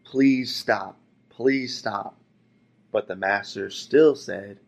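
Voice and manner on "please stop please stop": higher, louder desperate plea; acted cry of pain from the cup; pleading yell. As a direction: beg the master to stop. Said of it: "and I yelled".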